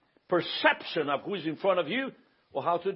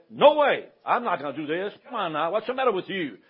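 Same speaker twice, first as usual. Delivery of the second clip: mock indignant refusal. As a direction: put on a mildly indignant haggler. Acts out the rude alternative reply.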